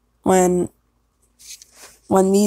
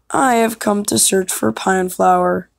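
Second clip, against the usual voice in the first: lightly acted declaration, opening pitched up; audition line. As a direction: lean on the first word, then settle. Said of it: "gonna do some alternatives".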